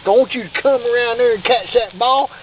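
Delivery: lightly voiced football coach; a hint of a coach rallying players. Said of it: "I sound like a damn football coach".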